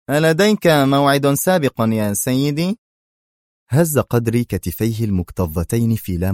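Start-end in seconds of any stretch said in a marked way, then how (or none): 0.1-2.8 higher, louder, wary; suspicious doorkeeper; nervous question. Acted. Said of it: "ثم قال في عصبية".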